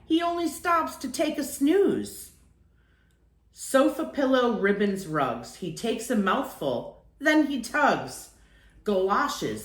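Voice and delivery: lilting sing-song rhyme, rising on line ends; playful read-aloud of a rhyming warning; poem recital. A narrator's reading. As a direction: read it like a cheerful nursery verse.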